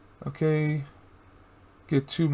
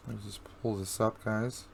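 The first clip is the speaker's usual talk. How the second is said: hoarse, faint, losing voice; barely-there raspy voice; raspy whisper; 3 semitones lower, 12 dB quieter than usual. Real, not acted. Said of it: "I'm losing my voice".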